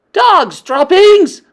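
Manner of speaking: high, loud, slow disgusted yell. Acted. Witch smelling a child, yelling in disgust. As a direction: spit it out in revulsion. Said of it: "she yelled".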